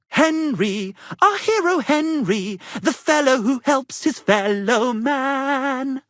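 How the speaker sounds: loud, high, slowed heraldic hailing of a hero; grand proclamation. Acted. Bard proclaiming Henry's praise to the tavern, loud and grand. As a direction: announce him like a triumphant herald.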